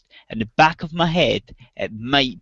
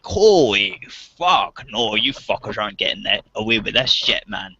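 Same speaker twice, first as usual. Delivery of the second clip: outraged disbelief; 4 semitones lower than usual. Retold or imitated. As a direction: stretch the first words out in disbelief, then drop low. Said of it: "I was like".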